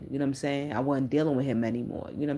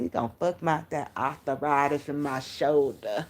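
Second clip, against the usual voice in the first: auntie voice. Acted. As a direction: moan about aching joints like an auntie. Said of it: "that sound like somebody auntie".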